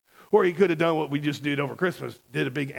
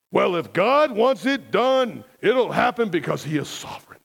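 mock fatalism; 4 semitones higher, 4 dB louder than usual. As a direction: draw out "if God wants it done" as an imitated pat answer. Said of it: "And they get fatalistic".

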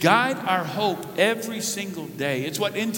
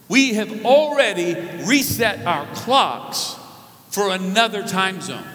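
preaching climax. Real, not acted.

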